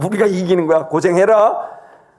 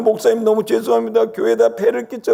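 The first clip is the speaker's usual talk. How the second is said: acted-out crying, mock-tearful while speaking; 2 semitones higher than usual. Pastor retells what the youth group president said after catching COVID: imitating someone crying. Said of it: "그 친구가 막 울면서".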